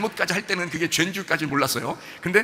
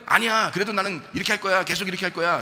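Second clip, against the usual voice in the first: higher, insistent retort; stubborn refusal; 3 semitones higher than usual. Acted. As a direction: act out digging your heels in. Acting someone who refuses to stop. (고집스럽게 우기는 말투)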